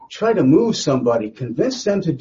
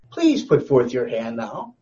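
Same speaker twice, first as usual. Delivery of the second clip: slow, courteous asking; nice, polite request; slower than usual. Acted. Satan making his request of God, in a nice polite way. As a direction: ask nicely, taking your time. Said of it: "asked it in a nice kind of way".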